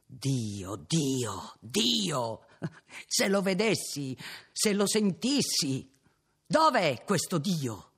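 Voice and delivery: rising, loud anguished calls; anguished cry. Acted. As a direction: cry out, tormented and searching. Innominato cries out for God.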